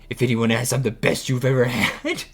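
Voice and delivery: loud, high dudebro boast; dumb guy voice. Retold or imitated. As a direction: brag like a clueless high school guy. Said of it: "and he's like".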